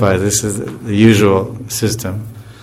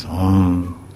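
a hint of a low cow moo; lightly low, short Hom like a cow; deep cow voice; 3 semitones lower, 4 dB quieter than usual. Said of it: "She got a very deep voice".

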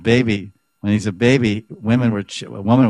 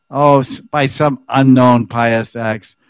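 louder, slow and bitter; slow scornful accusation; 3 semitones higher, 5 dB louder, slower than usual. Acted. Rival gopi condemning Radha, slow and louder with scorn. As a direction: drag out the words in scorn.

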